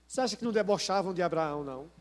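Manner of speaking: ordinary talk, nothing marked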